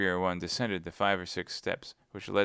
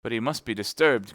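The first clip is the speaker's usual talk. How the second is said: host crying out, louder; raised, fretful protest; cried out; 3 semitones higher, 6 dB louder than usual. Acted. Host insists to D'Artagnan, crying out louder. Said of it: "cried the host".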